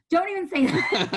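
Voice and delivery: high, loud, drawn-out retort; mock alarm. Boss shushing her assistant's pregnancy guess, mock alarm.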